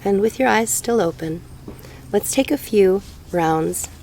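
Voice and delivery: slow meditation guide with long pauses; guided meditation. Real, not acted. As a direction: ease them into breathing, unhurried.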